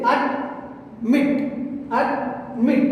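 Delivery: "admit" broken in two, weight on MIT; teacher's split "ad... MIT"; stress on second syllable. Shown as a demonstration. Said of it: "giving the stress on the second syllable".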